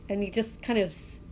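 ordinary talk

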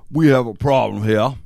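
a hint of an elderly man on speakerphone; old guy voice. Fake IRS agent announcing a problem, lightly voiced old guy. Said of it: "He does this old guy voice".

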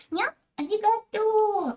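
put-on high, slow cutesy anime girl; squeaky kawaii streamer voice. Shown as a demonstration. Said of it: "милые голоса у стримера".

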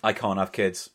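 low, understated mock-sad admission; deadpan confession. Host answers dad-joke teasing, low deadpan confession.

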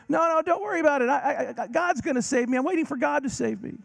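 man on the roof turning the boat away; stubborn man refusing. Retold or imitated. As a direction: brush it off, sure of God.

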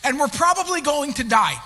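loud, slow, pleading protest; rising frustrated plea, bloody and bruised; frustrated complaint to God. Retold or imitated. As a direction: cry out at God, fed up and hurt. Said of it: "this is where I get frustrated".

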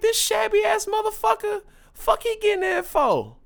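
high, loud, shouting outrage at the scruffy guy; outraged yell. Retold or imitated. Retelling seeing the scruffy guy let in, high mock yell.

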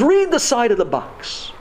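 imitated German-accented instruction; German doctor. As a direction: command slowly in a German accent. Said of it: "I hear his voice in my head".

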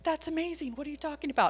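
high, amazed disbelief; astonished. Retold or imitated. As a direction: gasp it out, stunned by the news. Family astonished.

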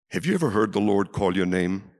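normal talking voice

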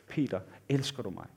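low, soft retold question; gentle question. Preacher voicing risen Jesus asking Peter, low and soft. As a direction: ask it quietly and intimately.

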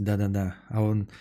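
normal talking voice

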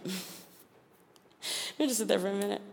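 hushed and slowed, almost breathless; soft, slow, awed repeat. Shown as a demonstration. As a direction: let it sink in quietly.

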